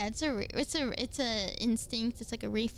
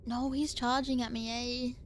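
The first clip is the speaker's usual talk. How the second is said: put-on Australian accent. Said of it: "my Australian best".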